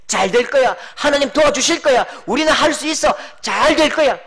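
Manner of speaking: loud, earnest declaration of hope; prayerful cheering words; hopeful encouragement. Retold or imitated. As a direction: speak faith over someone.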